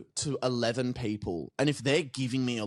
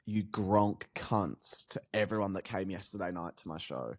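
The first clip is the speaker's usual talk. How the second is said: mock angry; 4 semitones lower, 5 dB quieter than usual. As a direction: drag out a mock curse. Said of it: "quit being a comedy audience".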